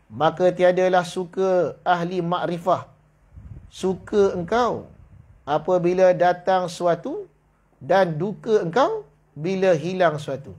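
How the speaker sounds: slow, measured reading of the classical text; kitab reading. Shown as a demonstration. Teacher reading the kitab aloud to the class, slow and measured. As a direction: read each phrase slowly from the old book. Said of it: "maka tiadalah suka ahli makrifah macam tu".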